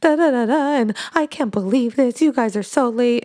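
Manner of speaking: high, whiny mock of a weepy customer; upset customer. Groom's mother sobbing to the makeup artist, high whiny mock. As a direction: squeak it out like a teary, fussy client.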